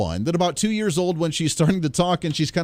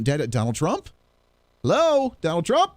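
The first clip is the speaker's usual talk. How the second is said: put-on child voice. Daughter voiced, insistent.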